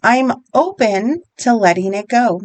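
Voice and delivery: slow, measured repeat-after-me delivery; guided affirmation. Shown as a demonstration. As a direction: lead them through it slowly, phrase by phrase. Leads repeat-after-me tapping statements.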